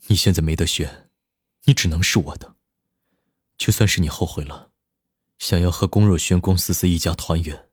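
low, steady domineering male voice; lightly voiced controlling lover; cold possessive boss. A narrator's reading. Nan Lichuan claims Momo.

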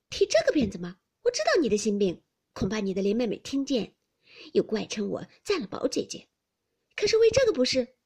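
lightly voiced pert girl. A narrator's reading. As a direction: tease him boldly, rising at the end. Xiangyun retorts to Baoyu.

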